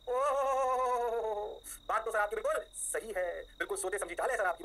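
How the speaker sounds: a hint of a fawning student, drawn out; mock flattering student. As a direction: play the pupil buttering up the teacher. Teacher voices flattering student.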